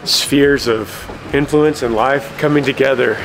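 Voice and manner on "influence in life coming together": out of breath at high altitude; a bit winded, out of breath. Real, not acted. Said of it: "I'm a little out of breath because I'm at high altitude".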